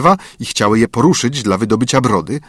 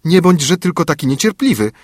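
put-on girl soothing; 7 semitones higher than usual. A narrator's reading. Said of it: "rzekła Białośnieżka".

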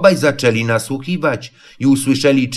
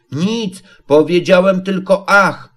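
high, uneasy little piglet; mildly anxious, high-pitched denial; 6 semitones higher than usual. A narrator's reading. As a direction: brush it off nervously. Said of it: "rzekł Prosiaczek niespokojnie".

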